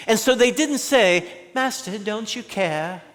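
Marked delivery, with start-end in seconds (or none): 1.5-3.0 soft, mild question, no urgency; meek quiet ask. Shown as a demonstration. Wrong take of frightened disciples, asked meekly. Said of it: "No, Matthew reveals that they were screaming".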